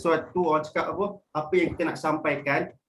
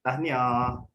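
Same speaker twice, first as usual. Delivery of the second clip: flat congratulations; 5 semitones lower than usual. Shown as a demonstration. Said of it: "Dengan lagi satu".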